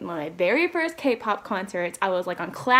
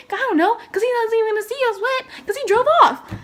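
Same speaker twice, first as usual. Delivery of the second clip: laughing outrage; 13 semitones higher, 6 dB louder than usual. Retold or imitated. Indignant quote ends in laugh.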